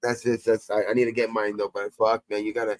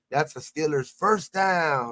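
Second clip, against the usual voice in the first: stadium announcer; 3 semitones higher, much slower than usual. Retold or imitated. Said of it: "channel where they're like".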